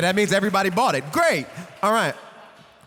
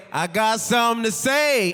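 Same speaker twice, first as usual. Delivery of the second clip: call line demo. Shown as a demonstration. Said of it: "I'm gonna say".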